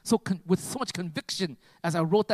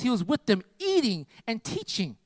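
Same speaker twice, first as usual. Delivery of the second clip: slow drawn-out phrase; 5 semitones higher than usual. Acted. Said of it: "repeats the phrase for emphasis".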